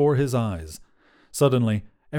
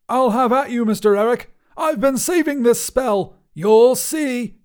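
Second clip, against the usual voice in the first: high, loud, indignant wizard; threatening outburst; 12 semitones higher, 6 dB louder than usual. A narrator's reading. Wizard threatens the man with a spell, shouting.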